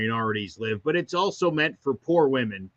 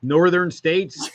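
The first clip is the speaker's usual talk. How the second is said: laughing; 4 semitones higher, 3 dB louder, slower than usual. Real, not acted. Co-host jokes, laughing.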